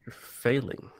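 whispered taunt; teasing whisper. Real, not acted. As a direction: breathe it like a secret jab. Teasing aside to friend.

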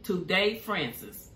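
"Today Francis" said slowly, each syllable clear; careful name. Shown as a demonstration. Reading a viewer's name to her, said slowly and carefully. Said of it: "Did I say it right?".

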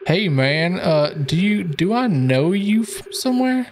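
lightly voiced stranger; character voice. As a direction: ask it starstruck. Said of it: "nice voice acting stuff".

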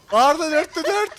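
slow, high, loud cheer; cheering the teammate on, drawing it out; excited shout. Real, not acted. Celebrating a teammate's kills.

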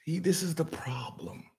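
soft conspiratorial whisper; a sly whisper before mocking his co-host; whispered aside. Real, not acted. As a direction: lean in and whisper it.

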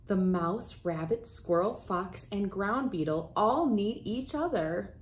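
put-on expressive picture-book read-aloud for kids; reading to children. Host reading a picture book to young friends, storytelling voice. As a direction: read it like story time for little ones.

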